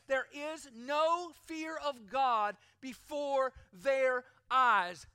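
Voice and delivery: measured, weighty preacher's reading, building to a loud finish; emphatic scripture reading. Real, not acted. Preacher reading Romans to prove nobody is good, emphatic. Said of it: "if you want emphatic, it doesn't get more emphatic".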